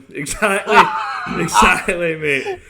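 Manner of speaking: loud laughing agreement; laughing shout. Real, not acted.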